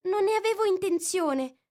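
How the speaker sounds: high, pleading apology. A narrator's reading. Poor Alice pleading with the offended mouse. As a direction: beg him not to take offense. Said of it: "supplicò la povera Alice".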